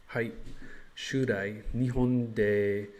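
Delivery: slow learner Japanese; careful Japanese answer; japanese learner accent. Shown as a demonstration. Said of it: "I should just say".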